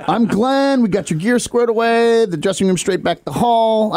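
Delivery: high, bright host greeting; eager welcome. Retold or imitated. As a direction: greet the band like a proud host. Retold greeting to arriving band.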